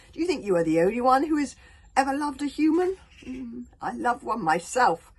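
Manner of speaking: loud, brooding dragon voice, slowing on the memory; reasoning dragon. Acted. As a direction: plead with the old dragon, bitter and sorrowful. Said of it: "tried to reason with the Wodenspang".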